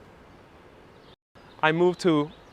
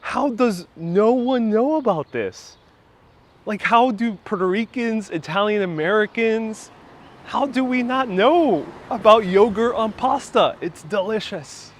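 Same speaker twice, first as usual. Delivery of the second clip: higher, slow, wondering wow; amazed; 5 semitones higher, slower than usual. Retold or imitated. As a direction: savor the discovery slowly. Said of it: "I was like".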